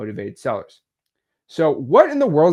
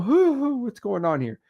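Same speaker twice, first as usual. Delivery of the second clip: imitating nerves; 7 semitones higher than usual. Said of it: "they get a little".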